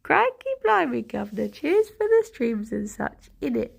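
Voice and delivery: playful mock Cockney British accent. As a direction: read it in a jokey British accent. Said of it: "doing your donation in British".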